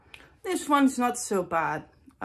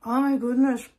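shocked exclamation; 5 semitones higher, 6 dB louder than usual. Real, not acted. Reacting to sour candy.

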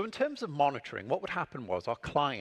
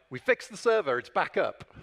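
team calling out; 5 semitones higher, 5 dB louder than usual. Retold or imitated. Team reporting the fix.

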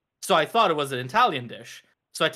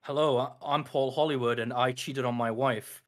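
put-on British accent; 4 semitones lower than usual. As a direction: lower gruff British voice. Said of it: "it's deeper than that".

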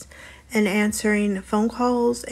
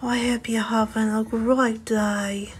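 gentle whisper; 8 dB quieter than usual. Shown as a demonstration. Offering viewers some gentle whispering if they want, softly whispered. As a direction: whisper softly and unhurriedly, close to the listener. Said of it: "I can do gentle whispering".

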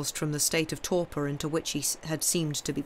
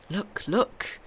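higher, insistent call; urgent exclamation; 5 semitones higher than usual. A narrator's reading. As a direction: urge them to watch. Count urgently directs their attention.

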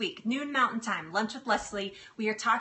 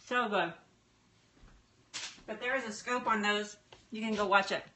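talking while chewing; mouth full. Real, not acted. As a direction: chew and talk. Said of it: "talking with my mouth full".

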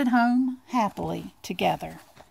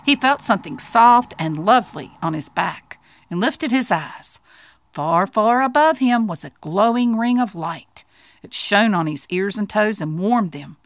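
put-on expressive children's story narration; storybook narration. A narrator's reading. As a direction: read it like a picture book, lingering on key words.

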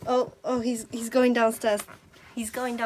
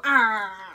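long, loud "ah" wail; gibberish; 6 dB louder than usual. Shown as a demonstration. Owner coaxing the dog into gibberish, loud drawn-out cry. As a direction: howl nonsense for the dog to copy. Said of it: "This is the gibberish".

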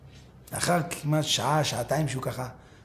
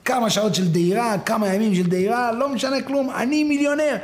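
excitement climbing higher to the end; elated boasting; 6 semitones higher, 3 dB louder than usual. Acted. Rider rejoicing that he is now a millionaire, elated. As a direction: build to a triumphant high cry.

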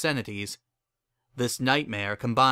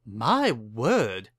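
Caesar voice. Acted.

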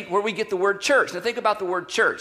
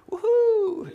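sarcastic woohoo; 13 semitones higher than usual. Acted. Disciples' mock sarcastic cheer.

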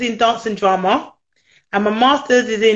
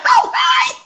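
mock surprised hi; 3 dB louder than usual. Retold surprised greeting.

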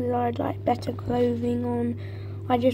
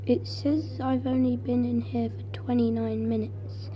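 hushed whisper; 6 dB quieter than usual. Real, not acted. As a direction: keep it to a whisper. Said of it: "it's getting really hard to breathe in here".

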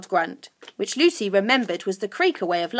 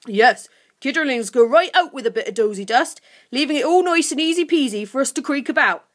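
creature voice, growing higher; helpful creature Sniff; 4 semitones higher, 5 dB louder than usual. Acted. Sniff telling Lucy about dozy dust, helpfully. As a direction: explain it as a chatty little creature.

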